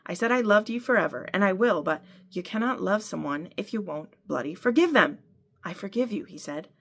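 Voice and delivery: reading a novel aloud, acting both voices; story narration. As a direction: tell the fight scene as a reader. Reads book passage aloud.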